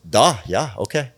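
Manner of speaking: mock Russian accent, brief and agreeable; bad Russian-Ukrainian accent. Singer agrees to publicist's terms, mock Russian accent. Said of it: "this is gonna be the worst accent".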